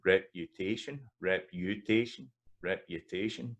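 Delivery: reputation with a clear "yuh" after the p; audible y glide. Shown as a demonstration. Teacher showing the glide, reputation with audible y. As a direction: repeat reputation carefully, keeping the y sound. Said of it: "You still hear the yeah in there".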